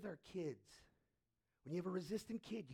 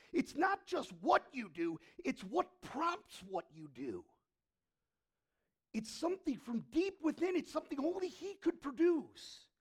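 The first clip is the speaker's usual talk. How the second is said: impassioned preaching; 6 semitones higher, 10 dB louder than usual. Acted. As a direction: drive each line home to the congregation.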